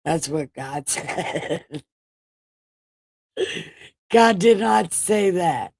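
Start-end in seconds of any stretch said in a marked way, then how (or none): 4.1-5.7 laughing denial. Real, not acted. Denying her own joke, laughing.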